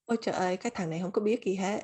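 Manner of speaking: fast exasperated Vietnamese grumble. Retold or imitated. To Brian, rattled off fast and fed up. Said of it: "I'm just like".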